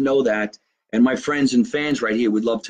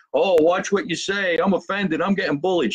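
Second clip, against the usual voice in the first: mock whiny kid; 5 semitones higher than usual. Mocking today's kids who complain of bullying, lightly whiny. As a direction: mildly mimic a snowflake complaining.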